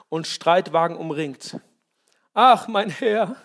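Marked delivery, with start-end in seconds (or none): 2.3-3.4 frightened cry. Acted. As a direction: cry out to your master in fear. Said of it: "rief er". (ängstlicher Ausruf des Dieners)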